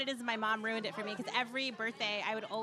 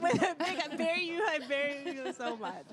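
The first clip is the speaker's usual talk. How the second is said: mock sappy; 3 semitones higher than usual. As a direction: coo it like a cheesy card. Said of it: "with a big bear in your arm".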